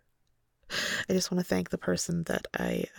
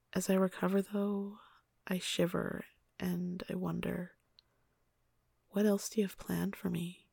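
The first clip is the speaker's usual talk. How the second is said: story narration. A narrator's reading. Reads erotic story aloud.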